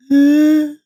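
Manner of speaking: loud, heaving sigh; long exhale to recover; heavy sigh. Real, not acted. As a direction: let out a big emotional breath. Heavy reaction after the tribute.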